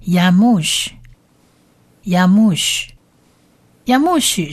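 yamush as "ya-MOOSH", slowly spaced; pronunciation demo. Shown as a demonstration. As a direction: repeat yamush with pauses, ending in sh. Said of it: "这个字整体念起来就是".

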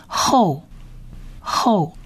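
"后" with an o vowel, drawn out; o-vowel pronunciation. Shown as a demonstration. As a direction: sound out "后" slowly, then repeat it. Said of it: "我们一般通常发成哦的音". (慢慢示范“后”，元音发成“哦”)

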